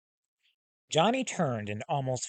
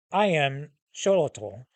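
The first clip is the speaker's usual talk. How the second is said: slow name; 4 dB louder than usual. Acted. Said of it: "Let me say that slowly".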